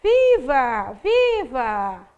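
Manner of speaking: drawn-out cheers with falling tails; exclaiming cheers. Shown as a demonstration. Teacher demonstrating exclamation marks, cheering in stretched exclamations. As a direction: call out each cheer like an audience member. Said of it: "você vai produzindo as entonações".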